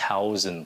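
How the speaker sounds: THOUSAND with Vietnamese breath-puffed th; wrong th sound. Shown as a demonstration. Teacher warning against Vietnamese thờ, mispronounced THOUSAND. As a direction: begin THOUSAND on aspirated T. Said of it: "đó là âm thờ của tiếng Việt".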